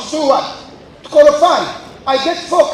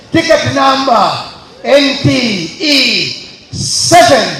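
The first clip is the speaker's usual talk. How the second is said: raffle caller; 5 dB louder, slower than usual. Real, not acted. MC calling raffle ticket numbers.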